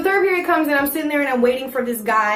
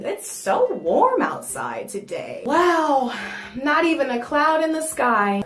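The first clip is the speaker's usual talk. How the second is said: drawn-out, fake-casual chat; forced casual small talk; slower than usual. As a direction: make awkward small talk, slowly. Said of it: "I'm trying to make casual conversation".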